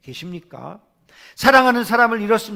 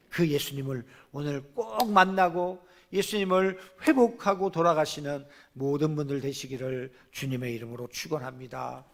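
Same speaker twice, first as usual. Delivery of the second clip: ordinary delivery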